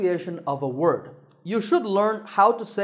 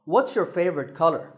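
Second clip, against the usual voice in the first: "What's your favorite color" dropping on color; falling tone. Shown as a demonstration. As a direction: let the question fall at color. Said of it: "has a falling tone".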